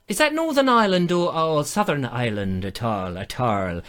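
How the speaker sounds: mock Irish lilt, falling away at the end; Irish accent. Teasing a viewer of Irish stock, mock Irish accent. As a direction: put on a playful Irish accent.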